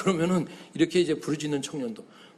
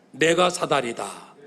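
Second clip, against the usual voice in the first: repeat after me; 4 semitones lower, slower than usual. Shown as a demonstration. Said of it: "한번 따라해 봅시다".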